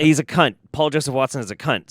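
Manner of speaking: sudden loud angry blurt; angry outburst. Real, not acted. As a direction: spit it out loud in anger. Angry outburst at Paul Joseph Watson.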